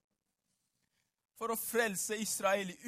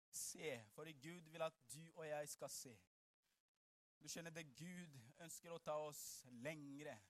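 very soft, low, measured delivery; hushed preaching; 5 semitones lower, 18 dB quieter than usual. Acted. Preacher telling what God said to Abraham, hushed low preaching. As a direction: draw the room in with long pauses.

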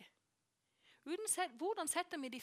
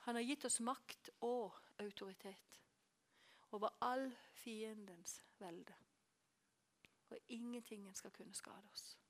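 whispered promise; 2 semitones lower, 7 dB quieter than usual. Real, not acted. Preacher whispering to the congregation about their authority over the enemy, hushed. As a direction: lean in and whisper it.

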